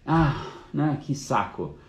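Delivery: mock fed-up buyer, starting high on the "Ah"; acted buyer's remorse; exasperated groan. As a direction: groan it out as a reluctant customer, then drop. Acting out a reluctant, pressured buyer.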